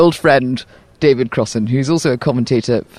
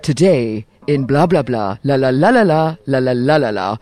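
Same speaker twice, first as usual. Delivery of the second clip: news voice; 3 semitones lower than usual. Retold or imitated. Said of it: "a bit like the news voice when you go".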